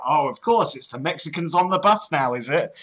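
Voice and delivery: sarcasm with a sceptical tag question; mock sarcastic disbelief. Host answering the Mexican-on-a-bus excuse, mock sarcasm. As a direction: play at swallowing a ridiculous story.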